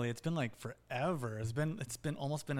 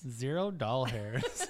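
laughing; 3 dB louder, much slower than usual. Real, not acted. Repeats joke, laughing.

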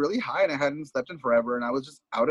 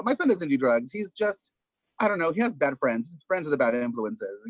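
denial parent voice; 3 semitones higher than usual. Retold or imitated. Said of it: "there's also the".

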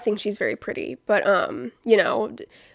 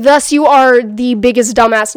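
mock scornful; 10 dB louder than usual. Mocking friend's judgment.

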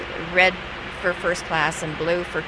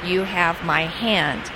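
stern passenger; slower than usual. Retold or imitated. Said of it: "he looks at me very sternly".

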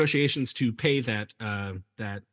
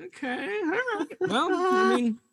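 mock huffy reaction; 13 semitones higher than usual. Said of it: "And you're like".

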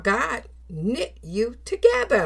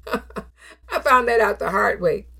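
said through a rueful laugh; chuckling self-mockery. Real, not acted. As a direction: laugh at yourself as you say it. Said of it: "Oh, I found that out the hard way".

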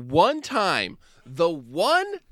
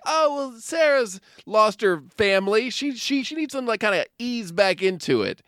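worried friends; 6 semitones higher than usual. Retold or imitated. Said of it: "Everyone's like".

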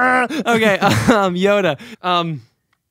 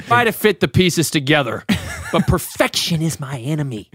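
a light hint of a smuggler, lower; lower, lightly voiced cocky rogue; Han Solo; 5 semitones lower than usual. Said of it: "Do that, uh, Han Solo".

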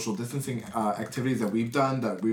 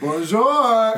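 laughing greeting; 10 semitones higher, 8 dB louder than usual. Pretend. Mock drag walk-in greeting.

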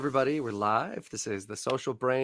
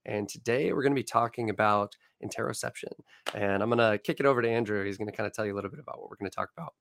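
croaky voice getting over laryngitis; rough, frog-like hoarseness; hoarse voice. Real, not acted. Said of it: "so I kinda sound like a frog today".

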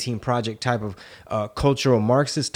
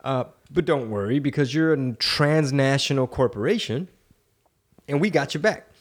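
mysterious spy voice. Retold or imitated. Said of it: "That was my Eric Swalwell impersonation".

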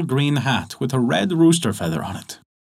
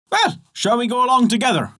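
friendly invitation; 11 semitones higher than usual. Acted. Invitation to the miller.

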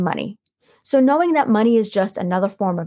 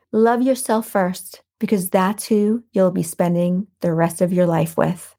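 inspirational quote reading. Acted. Reads inspirational quote aloud.

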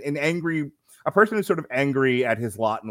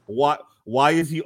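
ordinary talk

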